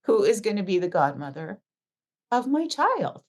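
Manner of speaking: indignant retelling. Retold or imitated. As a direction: re-enact telling him off, pausing between phrases. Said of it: "And I lost it on him".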